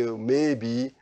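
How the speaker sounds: unsure hedging. Retold or imitated. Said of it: "always try to say".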